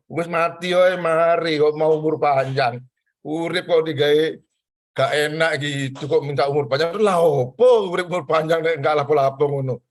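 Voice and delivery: a touch of a doctor's teasing exasperation; exasperated doctor. Retold or imitated. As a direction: scold the joyless patient, half joking. Doctor scolds patient in story.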